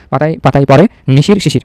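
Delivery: নিশির said slowly and clearly in place of শিশির; slow, careful dictation; teacher reads the corrected line slowly; slow corrected reading. Shown as a demonstration. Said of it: "শিশির শিশির হবে না".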